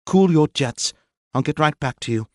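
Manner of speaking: high, loud and curt; curt angry. Acted. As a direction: brush him off sharply. Maxine still snapping at captain.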